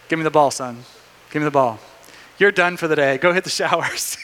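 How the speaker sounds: lightly voiced manager, low start; a hint of a calm coach benching his player; baseball manager. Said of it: "the manager comes out on the mound".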